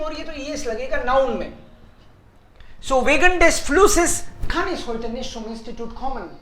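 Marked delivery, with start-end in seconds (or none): 2.8-6.3 slow, deliberate German sentence; slow model sentence. Shown as a demonstration. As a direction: read it slowly so students follow. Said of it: "teacher models full German sentence".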